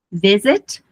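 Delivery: "visiting" in American English, T like a tapped R; American "visiting" with a softened T; American pronunciation. Shown as a demonstration. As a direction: say "visiting" the American way, T turned into a quick R. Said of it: "eu uso a pronúncia americana".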